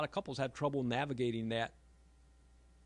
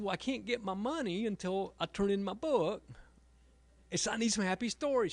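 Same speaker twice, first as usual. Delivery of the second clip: pleading father; 8 semitones higher, 5 dB louder than usual. Retold or imitated.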